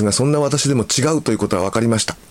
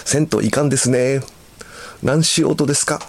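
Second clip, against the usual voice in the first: lightly performed Hakata dialect examples; a hint of Hakata lilt; Hakata polite dialect; 5 semitones higher than usual. Shown as a demonstration. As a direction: read out polite Hakata phrases, pitched up. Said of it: "福岡の人は敬語として使っている".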